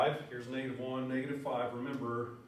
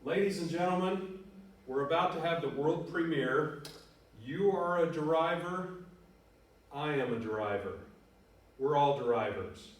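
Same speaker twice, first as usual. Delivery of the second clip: booming, higher showman announcement; grand announcer; 3 semitones higher, 4 dB louder than usual. Shown as a demonstration. Teacher introduces his song to class, loud hammed-up announcer. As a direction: announce it like a stage host. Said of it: "Let's start that again".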